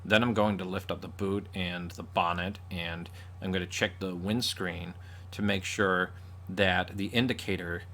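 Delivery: deliberate mock-American accent; imitation American accent. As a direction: mimic an American fumbling British car words. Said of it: "if an American started talking".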